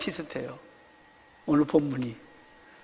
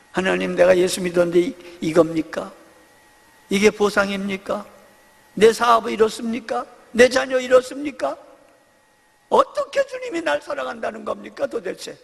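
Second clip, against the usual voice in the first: mild mock complaint. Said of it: "우리가 그렇게 늘 그렇게 말하잖아요".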